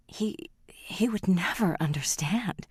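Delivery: hushed, slow and breathless; scared hushed aside; fearful whisper. Acted. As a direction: whisper it as if he might hear. Frightened daughter confides about father.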